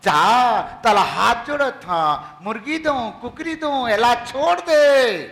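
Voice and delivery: slow wheedling offer; mock pleading bargain. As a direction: bargain meekly with the spirit. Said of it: "नमस्ते मत करो".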